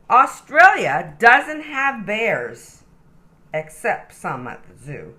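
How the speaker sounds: lively, sing-song storybook reading; animated read-aloud for little kids; reading to children. Acted. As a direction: read it like a bedtime picture book. Reads picture book to child.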